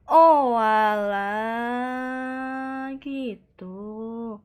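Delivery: very slow, drawn-out fake cry; mock wail. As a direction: ham up a crying "oh alah". Mock wail at the sad lore. (pura-pura menangis)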